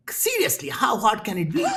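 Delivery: high, mock-disbelieving with a laugh; laughing mock disbelief; incredulous laugh. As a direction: scoff at how hard it could be, laughing. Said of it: "And I'm like".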